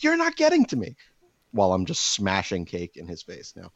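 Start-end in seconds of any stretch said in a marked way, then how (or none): 0.0-1.0 high, strained falsetto insisting it's fine; mock calm inner voice. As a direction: squeak it out like you're barely holding it together. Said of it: "I'm just sitting here thinking, like".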